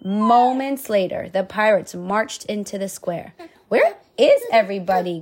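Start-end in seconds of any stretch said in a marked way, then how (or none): 3.7-5.2 growled. Acted. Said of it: "growled the pirate captain".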